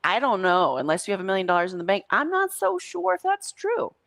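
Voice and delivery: lightly mock the bragging ego. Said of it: "let your ego come in and be like".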